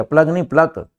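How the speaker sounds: प्लग first said as plug, then corrected to pluck with a hard k; correcting plug to pluck. Shown as a demonstration. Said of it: "प्लग नहीं, प्लग".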